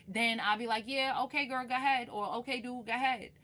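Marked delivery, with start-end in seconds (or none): 0.9-2.1 bright, loud spirit voice saying yes; imitating a spirit. Voicing the ancestors giving the go-ahead, higher and louder. 2.4-3.3 casual spirit voice, higher and louder; imitating a spirit. Another spirit waves her through, higher and louder.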